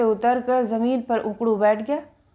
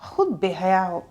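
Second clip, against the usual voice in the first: lower, mock-stern reproach; girl mock-scolding her cheeky driver; 4 semitones lower than usual. A narrator's reading. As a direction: call him shameless, half-meaning it. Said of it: "मैंने कहा".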